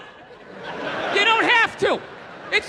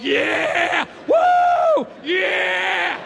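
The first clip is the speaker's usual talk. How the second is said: sugar-rush whoop; 4 semitones higher, much slower than usual. Acted. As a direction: cheer like the sugar just hit. Acted sugar-rush cheer.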